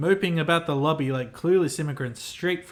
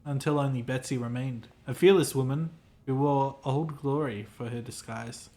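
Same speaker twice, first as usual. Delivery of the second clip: sad tone. Acted. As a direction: let the grief for lost hope seep in gently. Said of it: "continues in a sad tone".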